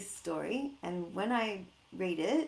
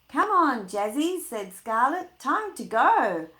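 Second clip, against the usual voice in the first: eager, louder call to the dog; Scarlet excited; 6 semitones higher, 11 dB louder than usual. Acted. Girl eager to leave, calling her dog louder. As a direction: call the puppy out, ready to go.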